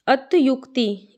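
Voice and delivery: slow अतियुक्ति with clear "yuk"; correct vowel demo. Shown as a demonstration. Teacher repeats for students, slow अतियुक्ति with u. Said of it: "क्या होता है".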